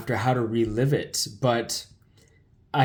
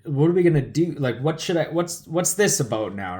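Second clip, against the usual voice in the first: retold panic; 3 semitones higher than usual. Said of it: "and I'm talking like this".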